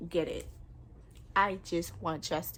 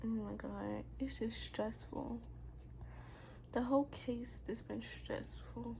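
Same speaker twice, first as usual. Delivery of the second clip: near tears; 3 semitones higher, 10 dB quieter than usual. Real, not acted. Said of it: "I swear I'm trying to cry".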